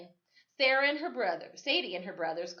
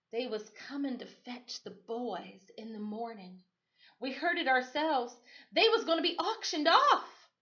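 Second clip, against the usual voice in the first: mother explaining; 5 semitones higher than usual. Acted. Mother explains, voiced in story.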